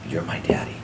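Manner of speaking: soft, low and simple; quietly, with held-back emotion; tender retold reply. Daughter answering her father, retold softly.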